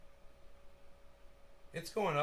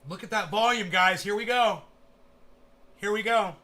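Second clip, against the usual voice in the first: excited; 5 semitones higher, 11 dB louder than usual. Real, not acted. Chart volume spiking live.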